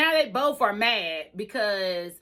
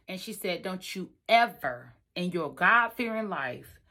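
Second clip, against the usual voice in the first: friend's firm advice; 5 semitones lower than usual. Retold or imitated. Best friend telling her to pay, low and firm. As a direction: settle her down firmly.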